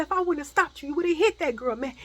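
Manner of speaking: high, loud accusation; angry reproach. Retold or imitated. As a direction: press the accusation, acting out the cousin. Cousin keeps scolding in acted quote.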